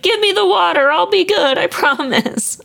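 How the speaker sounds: put-on high, pleading little boy voice, slowing at the end; pleading puppet. Pinocchio begging the fairy for the water, high and pleading. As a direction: beg like a scared child puppet.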